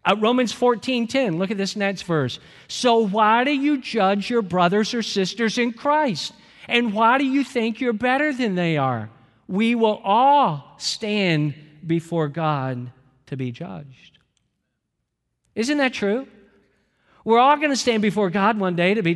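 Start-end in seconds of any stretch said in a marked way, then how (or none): 2.7-14.2 scripture reading. Acted. Reads the Romans verse aloud.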